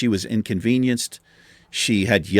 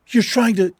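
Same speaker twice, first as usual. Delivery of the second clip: higher and a bit louder, imitating her outburst; a retold burst of anger aimed at him; half-acted accusation, sharply higher; imitating angry coworker; 10 semitones higher, 4 dB louder than usual.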